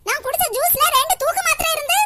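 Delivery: grandma reveals it, tartly; old granny. Acted. Grandmother tells them about the pills in her juice, tartly.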